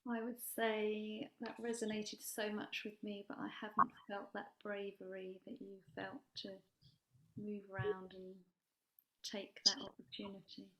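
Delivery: quiet, hard to hear, fading away; barely audible speech near the mic; very low voice. Real, not acted. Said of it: "Your, your voice is very low".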